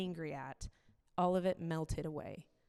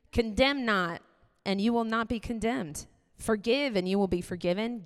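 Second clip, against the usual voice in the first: forceful, louder preaching read of the verse; scripture reading; 4 dB louder than usual. Acted. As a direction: proclaim the passage like from the pulpit. Reads Luke six aloud.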